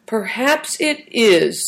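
slow, musing; thoughtful. A narrator's reading. Christian pondering the driver's fate, slow and thoughtful. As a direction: weigh each word as you think. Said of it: "said Christian thoughtfully".

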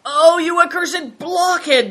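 high, loud, slow curse; enraged, drawn-out insult; furious cry. A narrator's reading. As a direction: cry out in exasperation. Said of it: "cried Greencoat".

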